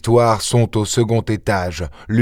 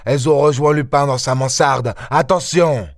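urgent warning; 6 semitones higher than usual. Acted. Ganimard warns his men.

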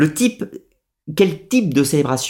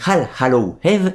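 slow, self-conscious English accent on "All Hallow Eve"; bad English accent; 4 semitones higher, slower than usual. Shown as a demonstration. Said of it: "mon accent anglais qui est absolument terrible".

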